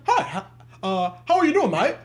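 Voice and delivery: put-on British accent. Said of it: "it can be British".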